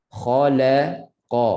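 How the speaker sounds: slow "khalaqa", thickened by the back of the tongue; thick without pouting. Shown as a demonstration. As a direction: raise the tongue root for kha and qa in "khalaqa", lips unrounded. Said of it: "Pangkal lidah naik dalam mulut". ("khalaqa" tebal dengan pangkal lidah)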